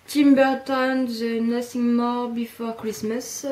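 slow, careful French-accented English; clumsy English accent. Real, not acted. Reading the English title off her cup in a clumsy English accent. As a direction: sound out the English title haltingly. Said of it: "excusez pour mon aglan-, mon accent anglais pourri".

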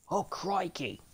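high, loud burst of excitement; excited exclamation. Real, not acted. Gamer entering Crikey's Cove, loud excited cry. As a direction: shout it with glee. Boss stage reveal.

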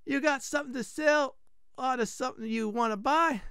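high mock-Italian shopkeeper; bad Italian accent. Blacksmith offering trade, bad Italian accent. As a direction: put on a high, hammed-up Italian voice. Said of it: "this is gonna be very bad Italian accent".

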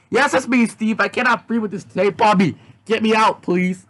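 a lightly voiced trapped girl crying out; pleading girl voice. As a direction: beg to be freed. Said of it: "Yazzie screamed".

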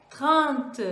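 "trente" said in French with a nasal vowel. Shown as a demonstration. Teacher gives thirty in French. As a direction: model "trente" clearly. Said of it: "Vou repetir".

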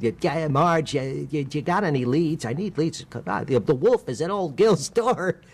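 forced cheer over desperation; pleading desperate salesman; Gil. Shown as a demonstration. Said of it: "based him on".

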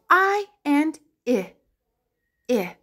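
"I and I" as long eye, then short ih; letter sounds. Shown as a demonstration. Teacher answering what the letter says, isolated "I" sounds. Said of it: "It says".

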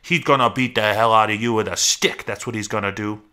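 loud, high burst, then running scold; angry berating. Acted. Rabbit threatens Lenny with George's beating, angrily berating.

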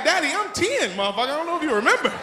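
put-on a ten-year-old protesting to his father; kid talking back. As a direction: whine back at your dad. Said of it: "I'm like".

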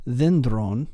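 "dendron" stressed on the first syllable, DEN-; stress on penult. Shown as a demonstration. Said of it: "accent on its next to last syllable".

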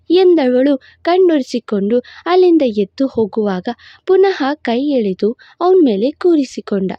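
ordinary delivery, nothing marked

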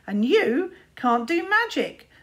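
plain taunt before the singsong; spoken taunt. Acted. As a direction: deliver the insult flatly cruel. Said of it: "taunted Luther".

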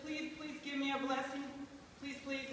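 understated acted plea; pleading. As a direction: beg with a touch of sadness. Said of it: "Esau was so sad, he wept".

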